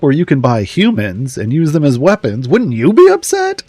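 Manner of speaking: indignant Sortle. Retold or imitated. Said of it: "And I was like".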